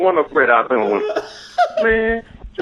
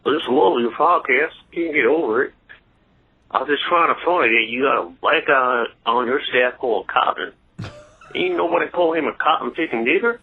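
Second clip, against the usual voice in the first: racist white guy; 4 semitones lower than usual. Acted. Caller plays a racist white guy for the host, lower voice. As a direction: lower folksy bigot voice. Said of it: "Generic racist white guy".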